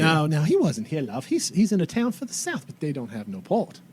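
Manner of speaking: emphatic Australian character voice; broad Australian woman correcting someone; Australian accent. Acted. Tracy correcting a question about her bounty, firm Australian accent. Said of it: "God damn, she's Australian".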